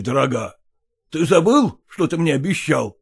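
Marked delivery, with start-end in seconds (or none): none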